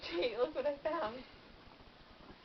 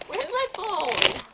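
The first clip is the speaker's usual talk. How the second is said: high, loud, drawn-out call for the phone; loud demand; 6 semitones higher, 10 dB louder, much slower than usual. Real, not acted. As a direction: stretch it out slowly and loudly, demanding. Demanding lost phone from friends.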